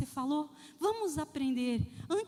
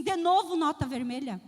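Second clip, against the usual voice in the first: scolding mother; 5 dB louder than usual. Retold or imitated.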